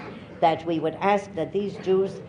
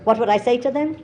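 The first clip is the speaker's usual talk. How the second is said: incredulous echo; 6 semitones higher, 5 dB louder, faster than usual. Real, not acted. Echoing question with disbelief.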